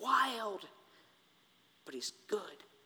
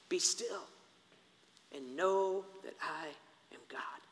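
soft, fading recitation; hushed scripture; 4 semitones lower, 6 dB quieter than usual. Acted. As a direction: let the verse fall to a whisper. Reciting psalm softly.

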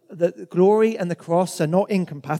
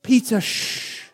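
slow, whispered shush; whispered "Peter, shh"; 4 semitones higher, much slower than usual. Acted. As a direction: hush Peter gently. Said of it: "God is saying".

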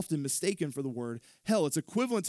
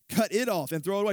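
repeated, louder and faster; 5 semitones higher, 5 dB louder, faster than usual. Shown as a demonstration. Pastor repeats the command to his congregation, louder and faster. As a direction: hammer the command home.

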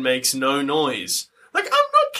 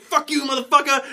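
higher, defiant yell while swinging; mock battle cry; 10 semitones higher than usual. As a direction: spit it out as you charge. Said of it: "he's like".

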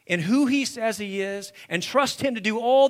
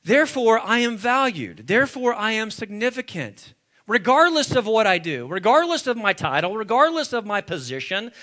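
loud, driving list of declarations; emphatic preaching; 5 dB louder than usual. Real, not acted. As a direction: build conviction with each repeated phrase. Preaching with force.

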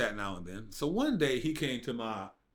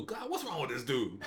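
laughing exasperation. Retold or imitated. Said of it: "I mean, just like that".

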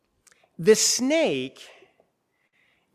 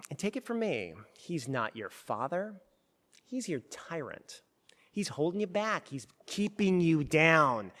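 sly snake tempting Eve. Acted. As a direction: lean in close like a serpent selling a secret. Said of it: "It's as if the snake says".

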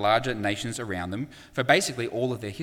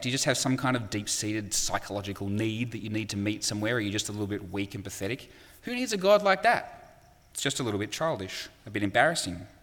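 dismissive sneer. Retold or imitated. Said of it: "the response will pretty much be".

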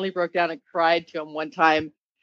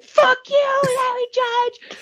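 much higher, drawn-out mock defiance at the coach; defiant curse; much slower than usual. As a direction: spit it at the coach, slowly, half joking. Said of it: "I'm like".

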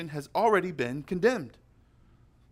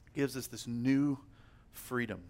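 much softer repeat, falling away on freedom; softer echo; 3 semitones lower, 8 dB quieter than usual. Acted. Preacher to the congregation, echoing the line gently. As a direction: let it land softly the second time.

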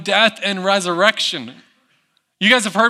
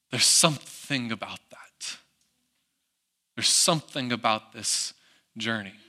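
hushed whisper; 10 semitones lower, 11 dB quieter than usual. Real, not acted. Preacher drops to hushed reflection.

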